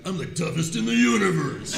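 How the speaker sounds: hammed-up tough guy boast; Paul. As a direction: play a bragging game fighter. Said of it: "Paul is like".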